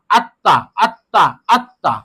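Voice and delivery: আত্তা with the ত held double, as আত-তা; doubled consonant. Shown as a demonstration. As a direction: say আত্তা slowly, pressing the doubled ত. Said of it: "ওই হরফটা দুইবার পড়তে হবে". (আত্তা, ত দুইবার চেপে: আত-তা)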